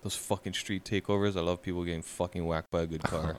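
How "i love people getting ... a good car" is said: low, easy, contented delivery; savoring relish. Real, not acted. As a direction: say it like enjoying a good cigar. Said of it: "you said it like having a good, like, cigar".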